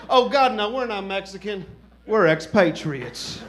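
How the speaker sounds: lightly mocking a prissy Texan expat, slowing on "expatriates"; a hint of offended American tourist; snooty expat couple. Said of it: "they're like".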